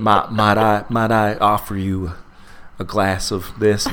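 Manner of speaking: mildly mock-courtly, drawn-out offer; retold gallant gentleman, slightly slowed; exaggerated politeness. Texan men fussing over a visiting woman, mock-polite. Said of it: "being incredibly polite and respectful".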